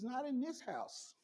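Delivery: slow, soft, firm mother's no; stern mom. Retold or imitated. Mother refusing her son, slow and firm. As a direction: lay down the law gently.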